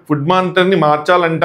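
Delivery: slow, hesitant request; said slowly. Retold or imitated. Ramya retold asking Kalyan slowly to change the monitor. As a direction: ease the words out slowly. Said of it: "నెమ్మదిగా చెప్పింది".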